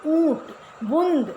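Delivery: ऊँट, बूंद drawn out slowly with the vowels through the nose; nasalized vowels. Shown as a demonstration. Teacher showing students the nasal sound, slow and nasal. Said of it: "थोड़ा सा नाक का भी उच्चारण".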